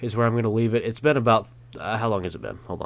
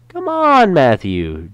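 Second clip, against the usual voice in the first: much higher, louder whiny call; whining shout; 9 semitones higher, 8 dB louder, much slower than usual. Acted. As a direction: whine it out like a pestering friend. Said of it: "Jake shouts in a, lo-, a whining voice".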